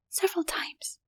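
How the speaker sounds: frightened breathy whisper, barely voiced; trembling whisper. A narrator's reading. Woman hiding from the leopard, trembling whisper. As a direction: whisper it, shaking with fear. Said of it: "she answered, still trembling".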